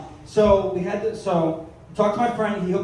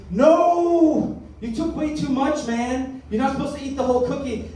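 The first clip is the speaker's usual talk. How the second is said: high-pitched drawn-out scolding; alarmed friend; 8 semitones higher than usual. Retold or imitated. Friend hearing he ate the whole cookie, high mock alarm.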